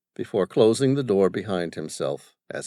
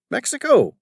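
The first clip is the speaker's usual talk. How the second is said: high, loud, scornful father; disgusted; 12 semitones higher, 7 dB louder than usual. Acted. Father scoffing at his son's Mexico job, disgusted. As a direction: sneer at the idea of unpaid work. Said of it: "sounding disgusted".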